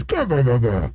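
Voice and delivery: mock giant's laugh, "gah, bah, bah"; Dory. Giant enjoying the ride, mock "gah-bah" laugh. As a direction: bounce out a half-acted guffaw, dropping at the end. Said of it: "Dory says".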